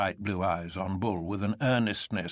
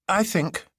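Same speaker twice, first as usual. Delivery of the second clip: with precision; 12 semitones higher, 4 dB louder than usual. A narrator's reading. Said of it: "said Doctor Bull with precision".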